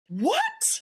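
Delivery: squeakily high rising question; peak disbelief. Retold or imitated. Sergeant reacting to the new JAG news, utterly flabbergasted. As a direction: send it to the very top of the voice, flabbergasted. Third, highest shocked reaction.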